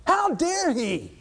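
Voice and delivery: high, loud outraged cry; angry. Acted. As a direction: blow up like the offended general. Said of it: "Naaman was wroth".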